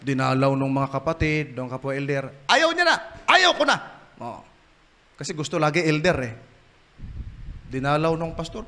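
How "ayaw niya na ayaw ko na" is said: sulky outburst. Retold or imitated. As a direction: whine it like a sulking old man. Sulking elder refuses, shouting. (pasigaw na pagmamaktol)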